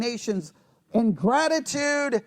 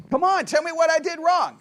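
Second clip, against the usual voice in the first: husband's higher-pitched mock challenge; rhetorical challenge; 5 semitones higher, 3 dB louder than usual. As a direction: dare without wanting an answer. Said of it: "ask it in a rhetorical way".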